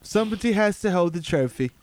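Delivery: put-on British accent, hammed up; mock British accent. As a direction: imitate John Oliver's British speech.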